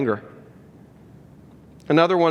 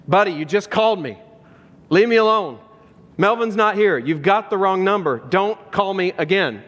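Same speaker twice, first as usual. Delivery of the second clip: higher-pitched, mock-irritated phone reply; acted mild anger; 3 semitones higher than usual. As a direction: play an annoyed man telling off a wrong-number caller. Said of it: "Now he's angry".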